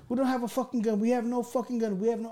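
insistent high mock yell, held at talking volume; retold scream. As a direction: imitate pleading screams from the back of the car. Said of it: "I'm screaming".

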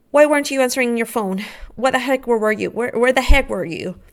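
retold annoyed demand for an explanation; mildly angry, rapid-fire questioning at the start; pissed off. Wife confronting husband about his phone, pissed off. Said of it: "remember, I'm pissed".

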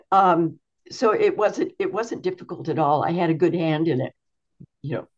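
talking through hiccups; words broken by hiccups. Real, not acted. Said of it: "I'm sorry, I got the hiccups".

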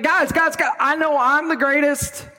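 a hint of a cocky disciple; boastful Peter. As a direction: brag like you're obviously the best. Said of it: "He's like".

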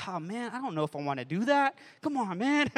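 acting out a half-joking, dragged-in protest; reluctant grumble. Pastor replying to friends who suggest therapists, reluctant.

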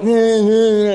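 grumbling drawn-out "nah" sounds; whiny painting noise. Retold or imitated. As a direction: imitate a kid toiling reluctantly. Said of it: "Daniel's kinda like".

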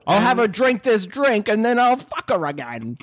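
hammed-up cockney. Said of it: "he probably is really cockney in real life".

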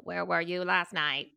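lightly robotic, drawn-out questioning; slow, measured machine voice asking a question; a hint of robot interrogator. Shown as a demonstration. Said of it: "in a voice like".

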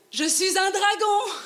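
high, loud proud dragon cry. Acted. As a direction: roar it out proudly.

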